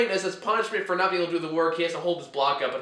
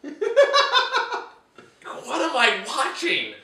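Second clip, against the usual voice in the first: slow, laughing what am I watching; baffled disbelief; 8 semitones higher, slower than usual. Retold or imitated. Laughing at the movie's baffling climax. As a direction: let the confusion drag the words out. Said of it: "my face contorted progressively until I was like".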